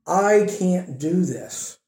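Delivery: slow, soft, defeated admission; whispered surrender of a person who gives up; quiet defeat. Acted. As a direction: let it sink, hopeless and hushed. Voicing a believer's inadequacy.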